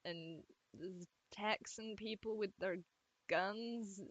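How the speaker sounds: slow, half-hearted Texan drawl; badly faked Southern accent, drawn out; attempted Southern drawl. Shown as a demonstration. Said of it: "They have, like, a southern drawl".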